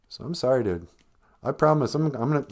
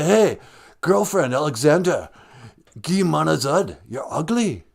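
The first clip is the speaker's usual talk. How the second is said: put-on keen dude slipping into Rez accent; 2 semitones higher than usual. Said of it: "don't say it with that Rez accent".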